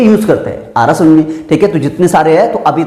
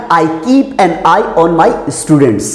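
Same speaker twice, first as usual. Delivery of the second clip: very slow, word by word dictation; much slower than usual. Shown as a demonstration. Teacher reading the example sentence slowly to students. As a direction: spell out each word slowly for the class. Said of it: "अब यहां पे लिखा".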